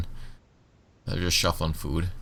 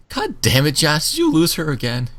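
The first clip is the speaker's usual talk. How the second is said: raised, scolding guard voice; exasperated guard; 9 semitones higher, 4 dB louder than usual. Acted. Guard scolding Johnson for losing Meredith, exasperated. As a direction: scold him for losing her again. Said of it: "she leans around you and she goes".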